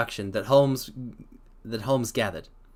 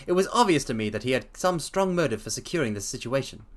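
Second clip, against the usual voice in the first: reading a story aloud, lightly voiced Holmes; 2 semitones higher than usual. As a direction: read the detective's explanation steadily. Reads Holmes's explanation aloud.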